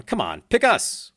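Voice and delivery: high pleading call; mock fan plea. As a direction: beg the band to pick your city. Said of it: "The listeners in Warsaw are, are going".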